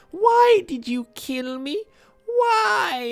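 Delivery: high, slow, pleading little fish voice; a dying fish begging its eater; mournful high-pitched fish; sad fish voice. Pretend. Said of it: "being like".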